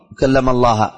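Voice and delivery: "الله" ending in "a", as Allaha; altered final vowel. Shown as a demonstration. Teacher illustrating distortion of wording, "الله" ending in -a. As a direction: say "الله" with a fatha at the end. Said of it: "تحريف لفظ".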